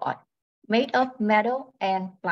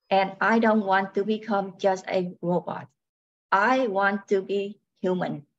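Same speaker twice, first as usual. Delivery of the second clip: robot voice. Acted. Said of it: "She speaks in a robotic voice".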